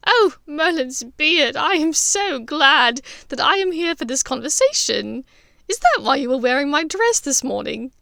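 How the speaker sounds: Andromeda delighting in the joke; mock laughing delight. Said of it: "in peals of laughter".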